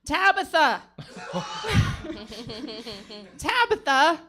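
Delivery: hammed-up pep-talk passion; mock emotional rally. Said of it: "I'm sorry for getting emotional".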